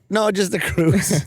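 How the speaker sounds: lightly voiced man correcting him, slowly; retold flat denial. Man tells Mick it is not a gay cruise, slow denial. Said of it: "And he went".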